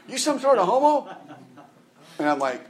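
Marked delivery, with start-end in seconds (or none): 0.1-1.1 high put-on voice of a suspicious old man; grumpy old man. Old man at the nursing home scolding the friendly preacher, mock suspicious. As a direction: act out the old gentleman's hostile question. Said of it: "That, that's just what he said".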